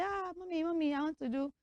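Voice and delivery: lightly voiced daughter's plea; a hint of a girl asking her mother; girl begging mommy. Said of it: "females. We'll say".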